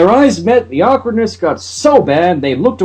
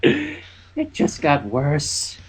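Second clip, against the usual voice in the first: mumbled; 2 semitones lower, 8 dB quieter, much slower than usual. A narrator's reading. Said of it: "Twilight mumbled".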